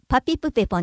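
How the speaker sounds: パピプペポ with a P on each syllable; Yayoi P-row. Shown as a demonstration. Narrator shows how the H-row changes, P sounds. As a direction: pop the P in パピプペポ. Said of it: "はひふへほはパピプペポになります".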